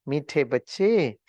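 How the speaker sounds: slow tender address; loving. Retold or imitated. Baba lovingly addresses his child, slow and tender. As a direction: draw it out lovingly, like a father. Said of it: "बाबा ने बहुत प्यार से कहा".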